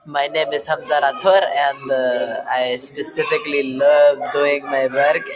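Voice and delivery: lightly attempted Romanian accent; a hint of a Romanian accent. Shown as a demonstration. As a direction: demonstrate a Romanian accent in English. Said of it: "some sentences in that accent".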